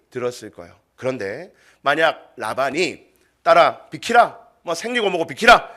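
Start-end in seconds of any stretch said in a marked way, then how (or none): 3.4-5.7 mildly acted impatient father's order; brusque command. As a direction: push her aside with a raised voice. Acting Laban ordering daughter aside. (살짝 윽박지르는 명령조)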